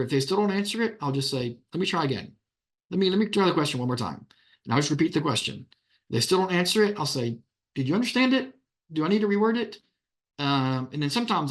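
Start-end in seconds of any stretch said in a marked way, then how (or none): 1.7-4.3 patronizing. Shown as a demonstration. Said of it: "I'll be a little patronizing". 7.7-9.8 higher, pointed condescending question; talking down to a parent on the stand; patronizing. Shown as a demonstration. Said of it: "I'll be a little patronizing".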